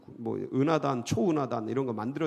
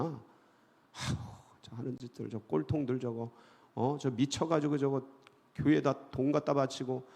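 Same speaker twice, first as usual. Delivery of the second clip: scornful muttering; 3 semitones lower, 4 dB quieter than usual. Retold or imitated. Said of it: "막 욕하고 막 비웃고".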